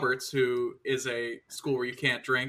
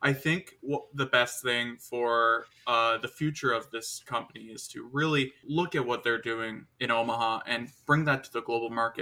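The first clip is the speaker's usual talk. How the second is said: ordinary delivery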